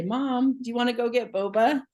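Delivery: lightly voiced child asking mom; imitated kids. Kids offering their stressed mom an outing, lightly imitated. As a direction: lift the pitch like a kid suggesting a treat. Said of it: "my kids will even say".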